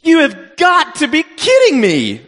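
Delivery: high, loud and drawn out, can't believe it; loud disbelief. Retold or imitated. Alone in an outhouse, telling friends about the lost lens, loud disbelieving cry. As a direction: belt it out in shocked disbelief. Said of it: "and I said this loudly".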